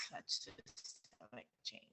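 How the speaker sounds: choppy, dropping out audio; breaking up over a bad connection; radio breaking up. Real, not acted. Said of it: "You're going a little bit in and out. It sounds like a little breaking up".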